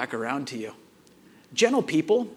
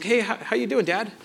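a touch higher, lightly voiced kid; son's casual opener; 3 semitones higher than usual. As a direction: lightly imitate a boy sidling up to dad. Voicing his son sidling up.

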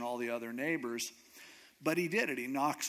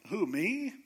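incredulous; 5 semitones higher than usual. Acted. Gideon disbelieves the angel's praise.

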